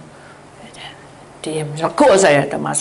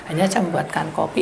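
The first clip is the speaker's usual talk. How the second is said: ordinary delivery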